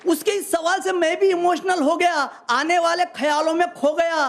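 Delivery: measured stage recital of humorous verse; phrase by phrase to an audience; comic poem recitation. Acted. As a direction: declaim it like a hasya kavi.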